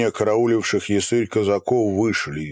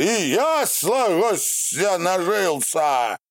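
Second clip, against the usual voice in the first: calling out; 9 semitones higher, slower than usual. A narrator's reading. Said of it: "закричали".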